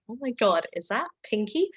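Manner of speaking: lightly acted starstruck gush; mild mock-awed excitement. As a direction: re-enact being thrilled to spot someone famous. Retells starstruck first sight of Pinky.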